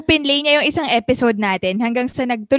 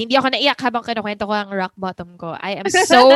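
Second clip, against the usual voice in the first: voice cracking; 5 dB louder than usual. Real, not acted. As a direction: voice breaking with emotion. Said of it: "nagka-crack na yung boses mo".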